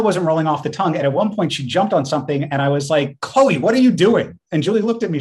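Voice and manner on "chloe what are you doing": calling out. Retold or imitated. Scolding cat on jumping.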